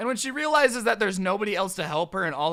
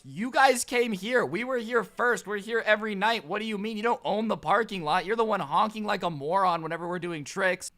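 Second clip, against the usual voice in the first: retold arguing; 3 semitones higher than usual. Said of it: "most of us yelling at her".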